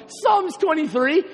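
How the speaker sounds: slow, rising and disbelieving; mock-incredulous echo. A church kid echoes God's answer back, slow and doubting. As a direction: repeat it back as if it's absurd. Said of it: "In my heart, I was arguing with God".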